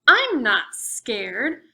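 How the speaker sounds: loud, slow, stubborn insistence; brave protest. Acted. Little mummy insisting to the monster, slow and loud. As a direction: stretch it out like a kid puffing up his courage.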